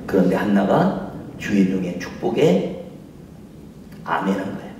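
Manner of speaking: ordinary delivery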